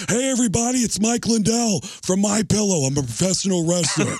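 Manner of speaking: put-on high, thick Minnesota accent. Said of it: "doing Mike Lindell".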